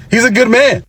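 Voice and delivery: high, loud, incredulous cry; exasperated outburst. Real, not acted. Woman mocks Savannah for leaving her husband, loud. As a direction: throw it out loud and high in disbelief.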